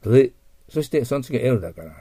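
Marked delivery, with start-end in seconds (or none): 0.1-0.3 initial R sound of "レ-", lips rounded, loud; English R demo. Shown as a demonstration. Teacher shows students the first sound, emphatic English R. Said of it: "最初が青だから".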